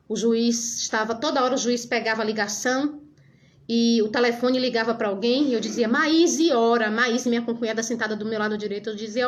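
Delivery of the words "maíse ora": urgent call. Retold or imitated. Urging sister-in-law to pray.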